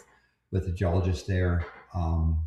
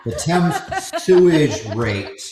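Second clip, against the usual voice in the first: laughing; 4 dB louder than usual. Real, not acted. Joking about sewage, laughing.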